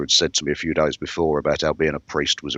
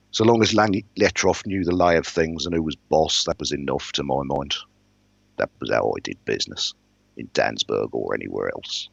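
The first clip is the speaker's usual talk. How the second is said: measured first-person storytelling; even-paced audiobook-style narration; story narration. A narrator's reading. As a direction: read the novel aloud, steadily setting the scene. Narrates a novel aloud.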